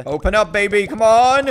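will it open, voice rising; eager, punched-up urging; excited urging. Real, not acted. Urging a pet egg open.

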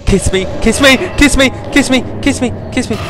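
high, loud repeated taunt; mock taunt. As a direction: egg the monster on, mocking. Taunting the monster.

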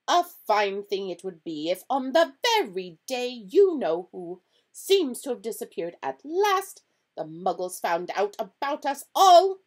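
loud, high, scandalised professor; indignant McGonagall. A narrator's reading. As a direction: scold indignantly as the stern professor.

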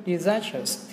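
"disastrous" stressed on the second syllable, zas. Shown as a demonstration. Teacher names the odd word out, disastrous, stressed on the second syllable. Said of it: "trọng âm ngay âm số hai".

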